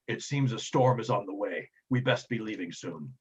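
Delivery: slow, lightly voiced lookout; watchful lookout Sacris, grave. Lookout warning the crew of a storm, slow and grave.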